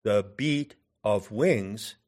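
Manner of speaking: "the beat of wings", slow, BEAT and WINGS stressed; iambic stress. Shown as a demonstration. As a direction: scan "the beat of wings" as two slow iambs. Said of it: "the two iambs".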